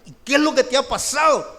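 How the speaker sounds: mother startled to find her son kneeling before dawn; astonished mother. Retold or imitated.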